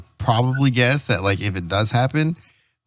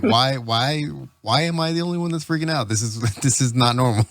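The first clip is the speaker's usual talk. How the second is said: higher, fast, hammed-up panic; mock panic; 3 semitones higher than usual. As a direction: pretend to freak out, laughing. Imitating freaking out during earthquake.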